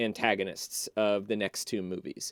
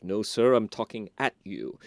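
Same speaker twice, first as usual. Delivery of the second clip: a hint of a lower, haughty nobleman; haughty Christopher Lee; 4 semitones lower than usual. Mocking nobleman brushing off the farm boy, lightly haughty. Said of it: "in his sort of haughty Christopher Lee voice".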